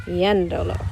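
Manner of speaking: "yéndolo" stressed on the first syllable; "yéndolo" with E stressed, last two syllables light; accented E. Shown as a demonstration. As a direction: keep the emphasis on the E of "yéndolo". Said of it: "so I need to add an accent".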